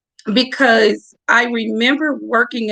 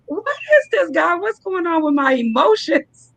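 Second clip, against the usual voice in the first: retold crying self; 7 semitones higher than usual. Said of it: "I started crying".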